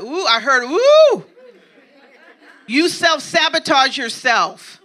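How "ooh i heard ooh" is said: mock gasp of dread. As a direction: squeal in playful alarm. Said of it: "I know some of y'all like".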